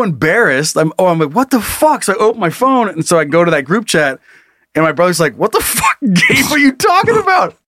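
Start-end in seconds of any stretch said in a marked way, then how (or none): 1.3-2.0 high, incredulous outburst; reliving the moment of confusion; shocked. Retold or imitated. Retold shock. 5.4-7.5 high, put-on incredulous brother voice; mocking brother. Brother quoted in group chat.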